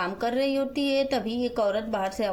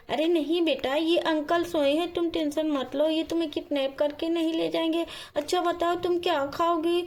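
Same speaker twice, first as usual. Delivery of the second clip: higher-pitched storybook woman's voice; kindly Radhika; 5 semitones higher than usual. Acted. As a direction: play a concerned woman in a children's story. Radhika reassures the child. (ऊँची आवाज़ में दयालु राधिका)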